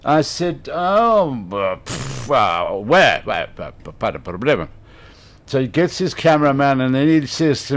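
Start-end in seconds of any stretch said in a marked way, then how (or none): 0.7-4.7 puffed stalling in a put-on French accent; fumbling mock French. English speaker bluffing to a Frenchman, fumbling French accent. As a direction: stammer and blow, then rush out bad French.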